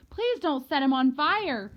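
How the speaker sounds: put-on child wailing for mercy; frantic plea. A narrator's reading. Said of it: "she looked like a real nut".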